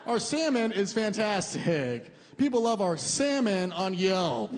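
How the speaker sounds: slow, polite sales pitch; waiter's pitch. Retold or imitated. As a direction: pitch the fish to the table. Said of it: "He goes".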